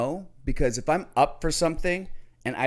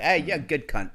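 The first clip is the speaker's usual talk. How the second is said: lightly imitated Australian accent; casual quote with a hint of Australian; mock Australian. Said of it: "Australians, right?".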